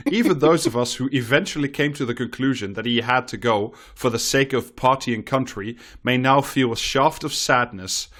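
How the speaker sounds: lively, rhetorical reading voice; column read-aloud. Acted. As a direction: read the column out with swooping emphasis. Reads a newspaper column aloud.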